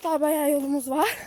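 breathless from the uphill climb; panting between words; out of breath. Real, not acted. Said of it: "Nefes nefese kaldım".

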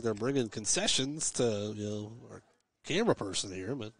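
talking while eating; words round a bite of food; mouth full. Real, not acted. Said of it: "it's hard to eat and talk at the same time".

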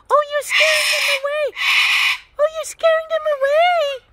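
urgent little cry to stop the bird; real startled exclaim to a pet; excited exclaim. Real, not acted. Bird scaring other birds.

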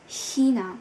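China with a breathy ch sound from the throat; German ch demo. Shown as a demonstration. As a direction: say China, pushing air through the throat at the start. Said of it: "chúng ta phát âm từ China". (phát âm China, ch đẩy hơi từ cổ họng)

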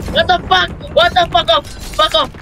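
outraged yell. Real, not acted. Getting killed in game.

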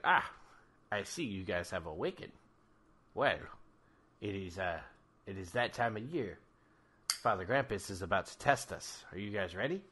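Ricky voice. Acted. GM voices Ricky greeting party.

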